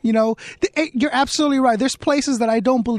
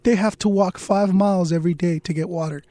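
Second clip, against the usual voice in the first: British announcer; 4 semitones lower than usual. Retold or imitated. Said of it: "in the British announcer voice".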